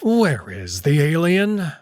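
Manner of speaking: slow, hard demand; stern demand. Acted. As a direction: cut him off and demand an answer. Kato cuts in, demanding.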